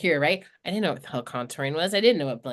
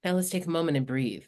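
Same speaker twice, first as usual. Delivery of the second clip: calm daughter; 4 dB quieter than usual. Retold or imitated. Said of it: "she's like".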